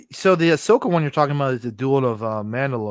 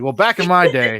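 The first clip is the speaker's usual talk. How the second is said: put-on old man voice. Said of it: "talking like an old man today".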